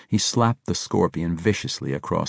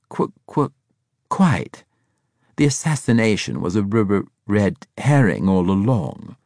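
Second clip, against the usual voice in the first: bright-spirited, stuttering agreement, pitched up at first; cheerful stutter; 3 semitones higher, 5 dB louder than usual. A narrator's reading. Braithwaite agreeing with the Scorpion, cheerful stutter. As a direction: stammer on first sounds while agreeing happily. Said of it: "Braithwaite cheerfully agreed".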